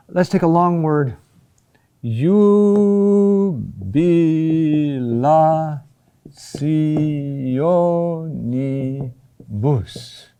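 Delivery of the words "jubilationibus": JUBILATIONIBUS very slow, each syllable drawn out and separate. Shown as a demonstration. Teacher spelling out a long Latin word for students, syllable by syllable. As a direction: stretch "jubilationibus" into evenly held, hyphenated syllables. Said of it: "a hyphen between all of those syllables".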